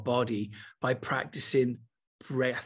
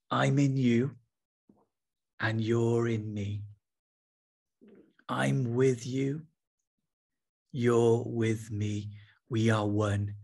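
prayerful affirmation; 2 semitones lower, slower than usual. Acted. Slow prayer words for listeners.

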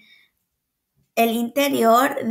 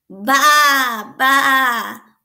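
a light, lightly voiced goat bleat; 5 dB louder than usual. A narrator's reading. Teacher reading to kids, mild goat bleat. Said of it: "baló la cabra".

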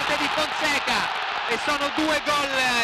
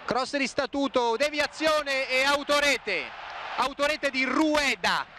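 excited goal call; 5 semitones higher than usual. Real, not acted. Own goal called live.

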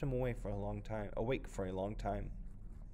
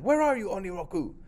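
high, loud taunting call; shouting; 10 semitones higher, 7 dB louder than usual. Acted. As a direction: call out across the river. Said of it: "he shouted".

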